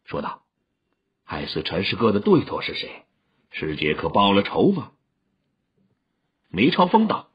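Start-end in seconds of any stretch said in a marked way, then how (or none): 1.2-4.9 sighing. A narrator's reading. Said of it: "不禁叹了口气".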